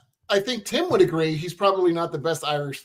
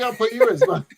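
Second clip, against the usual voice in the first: laughing; 4 dB louder than usual. Real, not acted. Teasing Dan, breaks into laughter.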